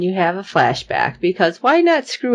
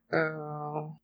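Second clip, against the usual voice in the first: quiet, deflated oh; 4 semitones lower, 15 dB quieter than usual. Retold or imitated. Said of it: "It's like".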